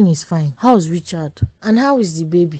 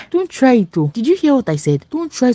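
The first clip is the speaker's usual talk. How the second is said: sharp, higher alarmed warning; 6 semitones higher than usual. Acted. Mother warns daughter against abortion, alarmed and high. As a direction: stop her cold, alarmed.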